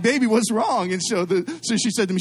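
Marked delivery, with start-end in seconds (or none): 0.0-0.9 mock concern. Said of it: "I'm like".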